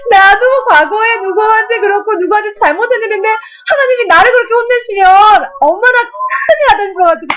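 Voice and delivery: a touch of alarm, voice rising; mock fear. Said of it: "너무 무서운 거예요".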